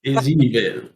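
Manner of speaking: slow menacing pronouncement; stern accuser. Acted. Player accusing the warrior over the axe. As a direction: lay down the charge slowly.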